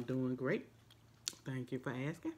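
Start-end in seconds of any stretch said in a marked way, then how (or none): 1.7-2.3 chewing while talking; speaking between bites; mouth full. Real, not acted. Seen 0: Chip put in mouth at -4, jaw chewing through words.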